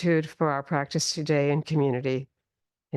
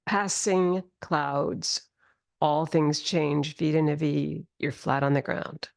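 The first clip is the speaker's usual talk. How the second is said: guided meditation; slower than usual. Acted. Teacher guides slow grounding.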